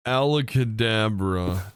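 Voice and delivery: slow drawn-out magic word; Ford voice. Shown as a demonstration. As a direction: announce it like a stage magician. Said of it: "Ford voice".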